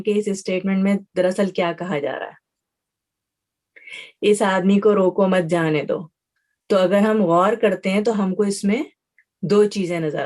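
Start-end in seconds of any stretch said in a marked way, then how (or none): 4.2-6.1 "اس آدمی کو روکو مت جانے دو" in one run, no break; no pause. Shown as a demonstration. Teacher reads the ambiguous sentence to students, unpunctuated and unbroken. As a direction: read "روکو مت جانے دو" straight through without a comma. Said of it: "بغیر کوما، بغیر کوئی sign کے اگر ہم پڑھتے ہیں".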